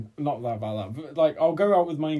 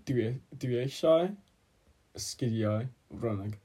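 slow, measured Welsh phrase; 3 semitones lower, 6 dB quieter, slower than usual. Shown as a demonstration. Speaker gives friends Welsh to guess, slow and measured. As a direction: say the Welsh slowly for learners.

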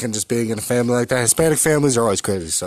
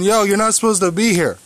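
mock sibling taunt; 8 semitones higher, 4 dB louder than usual. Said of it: "would be like".

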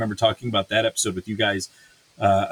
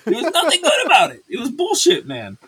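laughing; 3 dB louder than usual. Real, not acted. Laughing at how bad it was.

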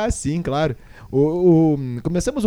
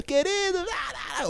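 abertura gritada; 13 semitones higher, 8 dB quieter than usual. Pretend. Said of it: "será que devemos abrir gritando".

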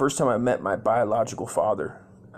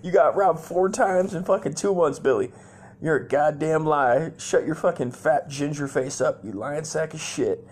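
mom yelling at dad; 6 semitones higher than usual. Retold or imitated. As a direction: chew him out like an angry wife. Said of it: "My mom's like".

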